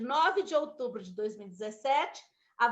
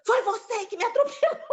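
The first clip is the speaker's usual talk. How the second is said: accusing, laughing; 11 semitones higher, 5 dB louder than usual. Retold or imitated.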